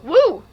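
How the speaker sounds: demonstrated warm-up "woo!"; demo woo. Shown as a demonstration. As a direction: let out a quick bright whoop. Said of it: "you just gotta go".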